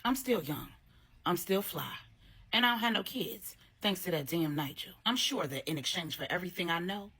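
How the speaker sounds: lightly voiced thick Trinidadian accent; a hint of a bitter Trinidadian woman; scorned mistress gossiping to her friend in a light Trinidadian accent. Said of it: "in a thick Trinidadian accent".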